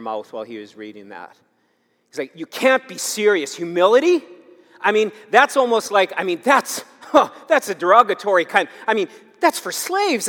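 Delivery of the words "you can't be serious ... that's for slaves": higher-pitched mock disbelief; incredulous reaction. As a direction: act out being taken aback by the word. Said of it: "that kind of reaction".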